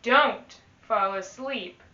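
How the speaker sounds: put-on lively read-aloud to children; teacher reading a rhyming book to the class; storybook reading.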